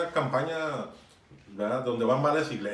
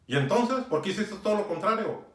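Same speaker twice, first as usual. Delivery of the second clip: higher, challenging retold rebuke; stern exhortation; 5 semitones higher than usual. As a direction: demand an explanation, admonishing. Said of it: "Sí lo exhorté". (exhortación en tono de reproche)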